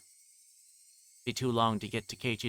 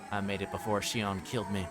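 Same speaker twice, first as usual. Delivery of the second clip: ordinary talk, nothing marked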